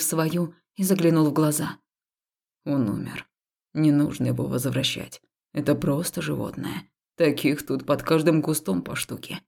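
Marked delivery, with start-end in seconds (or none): 2.6-9.4 calm soothing. Acted. Haul calmly comforts crouching beside her.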